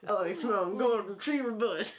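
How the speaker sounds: a light slow try at the cartoon hound; slow lazy hound attempt, eyes closed; Huck voice. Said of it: "his best Huckleberry Hound impression".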